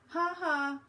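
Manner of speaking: laughing. A narrator's reading. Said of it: "Anna laughed".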